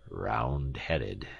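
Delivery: low, musing mutter; half to himself, appraising. A narrator's reading. Professor studies his visitor's skull, muttering low. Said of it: "he muttered".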